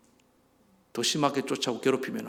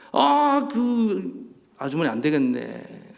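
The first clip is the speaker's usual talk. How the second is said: mock indignation; much slower than usual. Husband taking his wife's side against a neighbour, hammed-up indignation. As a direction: put on protective outrage, stretching the words.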